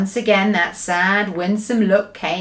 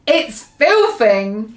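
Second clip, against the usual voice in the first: spluttering; 5 dB louder, much slower than usual. Acted. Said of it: "he spluttered".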